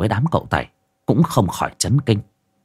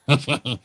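soft chuckle; 5 semitones higher, 6 dB quieter than usual. A narrator's reading. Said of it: "cười hì hì".

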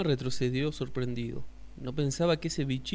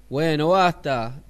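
sapo firme; 2 semitones higher, 10 dB louder, slower than usual. Acted. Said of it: "dijo el sapo".

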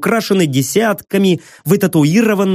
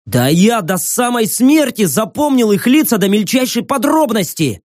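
insistent; 6 semitones higher than usual. Acted. Young man insists loudly.

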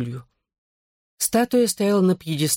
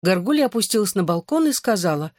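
ordinary delivery

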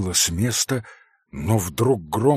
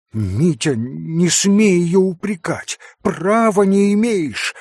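higher and louder heated rebuke; heated shout; 8 semitones higher, 6 dB louder than usual. Acted. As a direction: shout hotly at your brother. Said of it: "горячо крикнул на брата Алёша".

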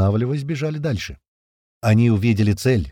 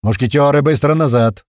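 loud, raised-pitch command; urgent order; 4 semitones higher, 7 dB louder than usual. A narrator's reading. Commander recalling his men under threat, urgent order. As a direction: call the men back at once.

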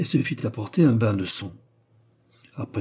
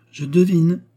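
smiling; 7 semitones higher, 7 dB louder than usual. A narrator's reading. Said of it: "fit-elle en souriant".

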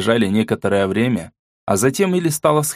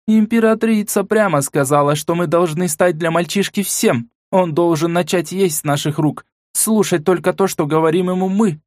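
властная начальница; 6 semitones higher than usual. Acted. Майор даёт указания Василисе.

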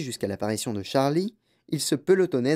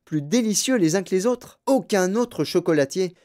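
enthusiastic grandfather; 6 semitones higher than usual. Acted. Reader voices grandfather's eager boasting.

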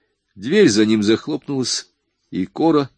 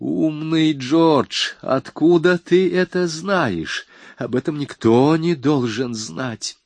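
bitter; 7 semitones higher, slower than usual. A narrator's reading. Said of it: "в котором звучала горечь".

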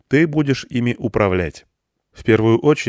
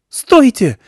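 shrill-pitched panicked cry, much higher and louder; hysterical high shout; 9 dB louder than usual. Acted. Irina stops the men from firing, hysterical high shout. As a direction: scream it high to stop them. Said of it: "крикнула истерическим тонким голосом".

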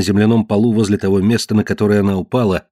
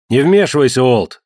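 raised, sharp shout; 4 semitones higher, 4 dB louder than usual. Acted. Marge to Walt, shouting at him not to meddle. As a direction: cut him off loudly. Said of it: "закричала Мардж".

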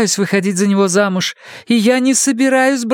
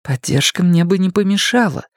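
soft reply; 6 semitones higher than usual. Acted. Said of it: "мягко ответила Фрэнни".

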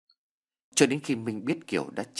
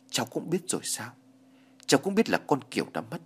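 put-on higher, quicker voice of an old woman caught off guard; surprised question; 4 semitones higher than usual. Mother surprised that Minh already knows, surprised question. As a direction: ask as if startled he already knows. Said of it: "Bà Thân cũng ngạc nhiên hỏi".

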